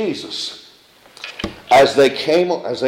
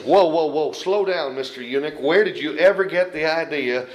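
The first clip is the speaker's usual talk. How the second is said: mock rebuke; 2 semitones lower than usual. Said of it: "Did Philip look at him and say".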